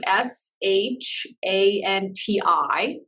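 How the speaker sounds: slow letter-by-letter spelling. Shown as a demonstration. Teacher repeating the mantra for a student, spelling slowly. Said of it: "Can you spell it again?".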